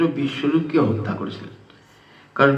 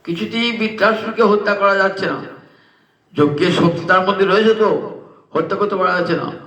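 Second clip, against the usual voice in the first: pleading to the king; 4 semitones higher than usual. Acted. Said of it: "বলছেন".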